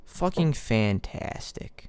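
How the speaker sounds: sarcastic. Real, not acted. Sarcasm over lost items.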